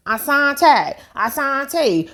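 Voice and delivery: high sing-song calling a name; lightly imitated searching call; mock calling out. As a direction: call for him like she did. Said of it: "talk about Asante".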